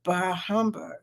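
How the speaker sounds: low muttered bah humbug; grumbled. Shown as a demonstration. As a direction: mutter it under your breath. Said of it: "Yeah, I said it".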